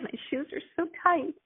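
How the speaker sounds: high, tearful cry on the shoes line; retold crying. Girl recalling her mother's funeral, bursting into tears. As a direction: let the voice break into crying. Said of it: "she just burst out crying".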